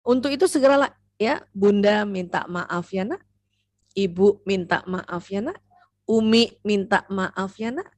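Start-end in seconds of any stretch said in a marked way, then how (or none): 1.5-7.9 put-on slow, gentle apology to the child; sincere apology. Shown as a demonstration. Mother apologizing to her son, slow and tender. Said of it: "Ingat ya kalimatnya ya".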